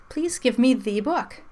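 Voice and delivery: "the" with a long ee, like "thee". Shown as a demonstration. Teacher shows what we don't say, "the" pronounced "thee". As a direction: say "the" as thee, the vowel saying its name. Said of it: "But we don't say that".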